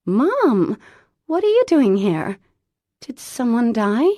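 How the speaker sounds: high, loud alarmed questions; surprised. A narrator's reading. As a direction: blurt out in alarm. Daughter shocked at full diner.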